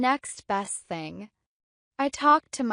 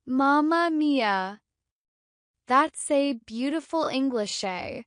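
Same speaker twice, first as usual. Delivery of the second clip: put-on Italian accent for a joke. Shown as a demonstration. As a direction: do a playful, stagey Italian accent. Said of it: "An Italian accent".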